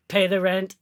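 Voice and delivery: menacing old cartoon villain demand; mustache twirling villain. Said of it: "mustache ... and you go".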